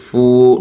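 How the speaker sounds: ফু with rounded lips, held long. Shown as a demonstration. Teacher shows the waw sound, rounded ফু. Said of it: "ওয়ার জন্য মুখ গোল হবে".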